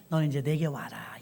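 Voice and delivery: a soft, tender whisper; whispered call. Acted. God whispering to Moses to come to him now. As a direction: breathe it gently, like calling someone home.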